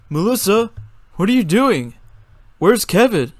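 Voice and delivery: eager questioning call. A narrator's reading. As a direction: call across the room to her. Crowd calling to Melissa.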